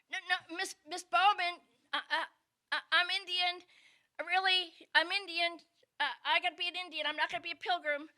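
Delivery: put-on child begging, a bit breathless; little girl insisting. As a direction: rush it like a desperate kid.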